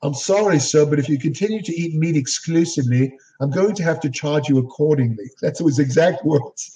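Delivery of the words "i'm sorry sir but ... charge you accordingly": light imitation of a polite English accent; a hint of an English accent, retelling the waiter. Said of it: "he had an English accent".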